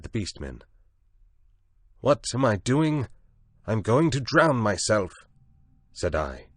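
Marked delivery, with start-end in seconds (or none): 2.0-5.1 high, loud desperate defiance; defiant cry. A narrator's reading. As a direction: fling it back at them. Desperate reply to his captors.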